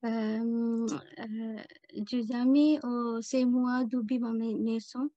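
Sri Lankan accent in halting French; French spoken with a Tamil-Sri Lankan accent; foreign accent in french. Real, not acted. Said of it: "mon français, c'est pas bien".

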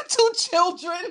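laughs through the question, rising; can't believe it, laughing; laughing disbelief. Real, not acted. Laughing in disbelief at two murdered kids.

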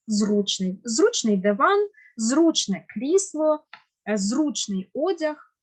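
Зручний and зручне stressed on ЗРУ; stress on first syllable. Shown as a demonstration. Teacher gives examples, Зручний stressed on first syllable each time. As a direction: put the beat on ЗРУ in every Зручний, зручне. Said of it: "наголос має бути на першому складі".

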